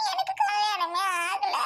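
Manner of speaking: slow, drawn-out sobbing lament; crying over being left unmarried; tearful wailing. Acted. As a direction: drag the words out through sobs. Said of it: "ஏன் அழுகுற?".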